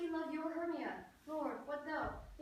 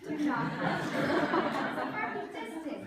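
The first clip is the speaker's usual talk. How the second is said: laughing, louder, pushing him away playfully; laughing protest; 10 dB louder, slower than usual. Acted. Hermia laughing off Lysander's advances, giggling protest. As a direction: giggle through the refusal.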